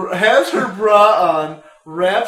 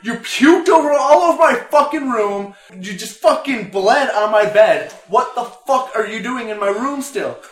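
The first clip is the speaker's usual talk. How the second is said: higher, louder furious rant; mock screaming girlfriend; retold angry tirade; 5 semitones higher, 5 dB louder than usual. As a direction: chew him out, imitating her rage. Girl yells back at guy.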